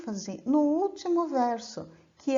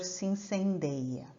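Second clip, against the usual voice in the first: measured, unhurried verse reading; poem recitation. Acted. Teacher recites a trova to the class, measured and poetic. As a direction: declaim the trova with care.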